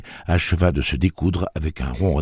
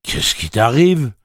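plaintive; 8 semitones higher, 7 dB louder, slower than usual. Acted. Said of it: "d'une voix presque plaintive".

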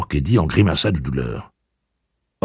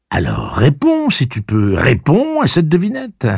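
stern demand; 11 semitones higher, 6 dB louder than usual. Acted. Roland demanding answer.

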